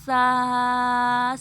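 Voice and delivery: سا with a soft, hollow, unwhistled s. Shown as a demonstration. Teacher showing students the hollow sa, soft and unwhistled. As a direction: say سا softly, breathy, no hiss. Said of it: "سا کو پھوکلا".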